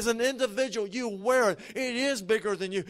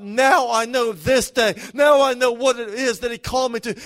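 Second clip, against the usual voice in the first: joyful exclamation; 7 dB louder than usual. Acted. Believer declaring their calling to the church, exclaimed loudly. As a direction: proclaim it like a sudden revelation.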